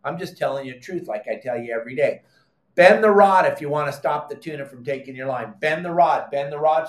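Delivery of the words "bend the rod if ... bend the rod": louder, insistent repetition of bend the rod; forceful command. Real, not acted. Captain ordering viewers to bend the rod. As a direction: drill it into them. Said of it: "coaching command repeated".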